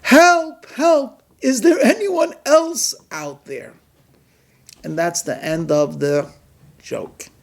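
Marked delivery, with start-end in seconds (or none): 0.0-3.7 shout for help. Acted. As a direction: yell for anyone else. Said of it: "he begins to shout".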